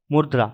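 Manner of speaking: मुद्रा with the half र joined to द; careful corrected word; corrected pronunciation demo. Shown as a demonstration. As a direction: say मुद्रा as mud-ra, not murda. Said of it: "ये र भी आधा है".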